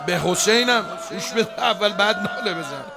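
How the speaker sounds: loud call across the room. Real, not acted. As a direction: call out to the reciter. Calls out to the reciter.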